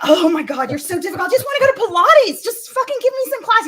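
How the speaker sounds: mock tantrum for Pilates; whiny pleading. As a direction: beg like a spoiled kid. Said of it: "I was like".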